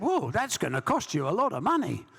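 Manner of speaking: a hint of a squeaky boxer; squeaky Joe Bugner. Bugner warning the promoter about cost, lightly squeaky. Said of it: "he had a very high-pitched voice".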